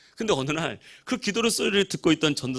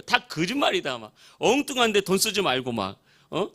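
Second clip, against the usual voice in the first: imitated Gyeongsang dialect rant, mildly raised; Gyeongsang dialect scolding; 3 semitones higher than usual. Drinking uncle telling nephew off, mock scolding in Gyeongsang dialect. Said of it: "경상도 사투리로 막 술 먹다 막".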